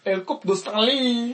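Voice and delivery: put-on French-sounding announcer, drawn out; slow, hammed-up foreign-accent voice; mock foreign accent. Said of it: "he can do that voice, I can't".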